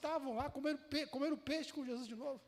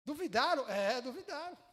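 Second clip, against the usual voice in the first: incredulous rise on Duvidaram, a bit louder; incredulous question; 2 semitones higher, 6 dB louder than usual. Real, not acted. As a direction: ask it as if you can't believe they doubted. Rhetorical disbelief. (pergunta incrédula, um pouco mais alta)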